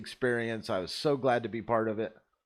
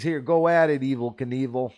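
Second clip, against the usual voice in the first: boss shouting; 2 semitones higher, 8 dB louder than usual. Retold or imitated. Boss throwing him the keys, a loud shout. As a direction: bark it out like a boss tossing keys. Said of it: "he says".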